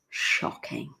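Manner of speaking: mock-scandalised whisper. Learner whispering in mock horror at movie. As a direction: breathe it out in horror. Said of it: "you will be like".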